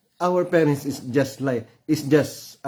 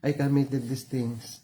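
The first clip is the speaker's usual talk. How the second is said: sorry prayer. Shown as a demonstration. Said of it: "trust it to our Heavenly Father".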